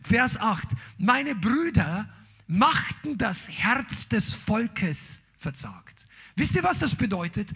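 normal talking voice

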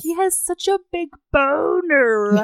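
drawn-out, giggly exclamation; slow, high, gleeful laughing delivery. Real, not acted. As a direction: stretch it out high through laughter. Giggling over the racy scene.

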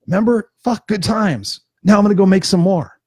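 joyful reminiscing. Retold or imitated. Imitating someone remembering old times with joy. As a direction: cheerfully recall the good times. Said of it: "look back on those experiences with joy".

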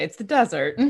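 unvoiced dry whisper; whispered aside. Real, not acted. Dry aside about desert hunting.

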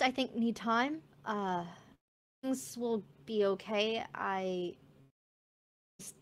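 soft, hesitant mermaid voice; lightly voiced, downcast mermaid; subdued mermaid. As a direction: speak quietly, pausing as if still overwhelmed.

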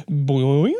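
springy diving board boing; cartoon boing. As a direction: make a bouncy boing sound. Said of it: "Did that sound like I was off a diving board".

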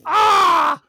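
loud high cry as the plane hits; mock crash yell. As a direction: yelp of a crash landing.

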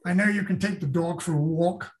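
rough try at a New York accent. Shown as a demonstration. Author admitting his limits to interviewer, amateur New York accent. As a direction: attempt New York vowels on "dog" and "walk". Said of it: "as far as I can go on that".

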